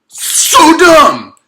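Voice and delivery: high, loud, stretched-out outcry; real exasperation at a cartoon; exasperated yell. Real, not acted. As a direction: drag it out in disbelief. Exasperated outburst at the character.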